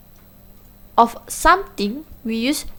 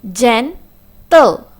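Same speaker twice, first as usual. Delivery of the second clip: GENTLE broken into two beats, gen - tle; split into syllables; 5 dB louder than usual. Shown as a demonstration. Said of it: "Two syllables".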